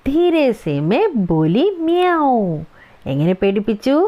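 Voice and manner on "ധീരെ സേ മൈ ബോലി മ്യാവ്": slow, higher line with a meowed ending; playful cat meow. Acted. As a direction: say it like a little cat. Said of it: "പൂച്ചയെ പോലെ അല്ലേ".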